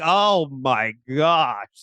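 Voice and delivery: drawn-out, drawling disbelief; exasperated mock groan. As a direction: stretch it out slowly, lightly put upon. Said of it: "Jamie's like".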